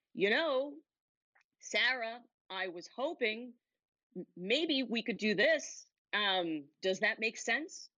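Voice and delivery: hesitant with rising, doubtful phrases; unsure, questioning. Shown as a demonstration. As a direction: sound like you doubt every word. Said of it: "Do you hear what I'm doing? I'm questioning myself".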